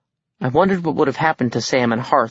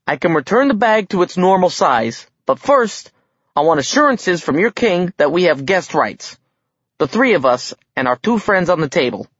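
nervous dwarf; 6 semitones higher than usual. A narrator's reading. Nervous dwarf bargains with king.

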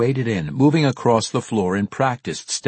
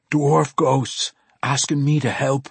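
higher-pitched dwarf voice, in disbelief; spooked dwarf; 5 semitones higher than usual. A narrator's reading. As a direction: report it as an awestruck dwarf. Haunted dwarf speaks in story.

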